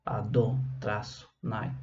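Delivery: "a do", pause, "traço, nai"; broken-up divine name. Shown as a demonstration. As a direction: split "a do" from "nai" with the word "traço". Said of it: "pra gente não pronunciar".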